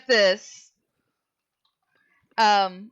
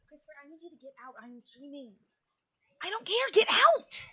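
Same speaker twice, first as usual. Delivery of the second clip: snapping at someone off-mic; hushed, then rising to get out; annoyed; 5 semitones higher, 6 dB quieter than usual. Real, not acted. Yells at someone in her room.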